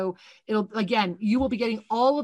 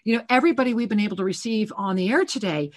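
fervent preaching. Acted. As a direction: drive it home to the listeners. Preaching on clarity.

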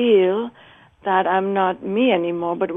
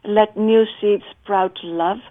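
slow, louder recited line; poem recitation; 4 dB louder, slower than usual. Acted. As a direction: savor each word of the verse.

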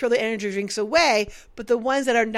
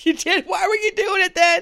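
much higher, louder incredulous questions; mock surprise; 8 semitones higher, 4 dB louder than usual. Imitating the boss questioning the worker, mock surprise. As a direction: play it as shocked disbelief. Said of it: "You're like".

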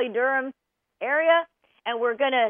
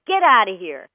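yelling at the dog; 3 semitones lower, 7 dB louder than usual. Retold or imitated. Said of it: "Well, you yell at him".

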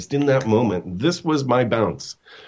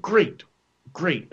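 chirpy great; 9 semitones higher than usual. Retold or imitated. Brother takes pizza order.

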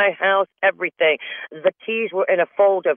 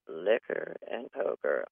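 put-on child's reply; 8 semitones lower, 13 dB quieter, slower than usual. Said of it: "she's like".

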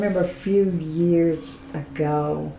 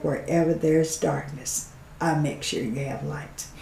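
retold whisper; 7 dB quieter than usual. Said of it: "she whispered in my ear".

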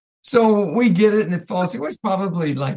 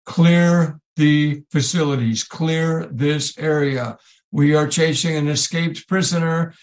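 slow, drawn-out police megaphone voice; loudspeaker announcement; 4 semitones lower, slower than usual. Retold or imitated. Police loudspeaker ordering everyone off the tree lot, slow announcement. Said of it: "the loudspeaker comes on".

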